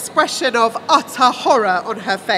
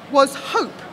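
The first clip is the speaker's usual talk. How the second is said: usual speaking voice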